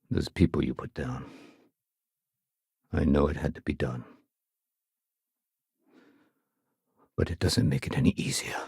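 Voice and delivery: low, halting, regretful reflection; sombre regret. Acted. Speaking of the people put down, sombre regret. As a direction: say it heavily, with long pauses.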